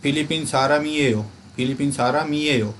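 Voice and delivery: सारम ईएओ said with the म running into ईएओ; linked reading. Shown as a demonstration. Teacher reads the linked phrase for students. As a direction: join सारम and ईएओ in one breath. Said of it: "जैसे bracket में लिखा हुआ है".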